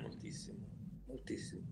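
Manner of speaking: breathy whisper, almost no voice. Real, not acted. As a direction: drop to a whisper for emphasis. Emphatic aside while praising contemporary art.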